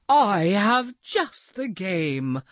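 a hint of a cheerful duck. A narrator's reading. Maxwell speaking.

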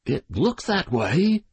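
put-on slow, hesitant old man's reply; uncertain. A narrator's reading. The old man answers the widow, unsure. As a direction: answer warily, unwilling to commit. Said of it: "said the old man uncertainly".

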